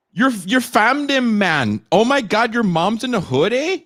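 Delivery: hamming up a fake Jamaican hood accent. Mocking Canadians who talk in a fake Jamaican hood accent. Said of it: "that fake Jamaican hood accent".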